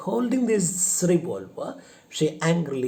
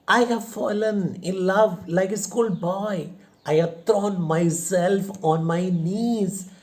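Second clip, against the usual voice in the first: exasperated confession; 5 semitones higher than usual. Acted. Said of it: "tells her how angry".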